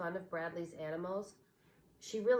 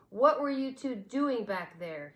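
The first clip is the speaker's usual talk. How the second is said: put-on boy demanding sharply, a bit louder; 4 semitones higher, 6 dB louder than usual. A narrator's reading. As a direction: press them for an answer. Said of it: "he demanded".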